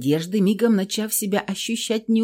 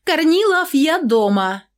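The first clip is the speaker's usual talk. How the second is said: loud cheerful call from the door; 10 semitones higher, 5 dB louder than usual. Acted. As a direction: call out across the flat. Woman calls out entering home.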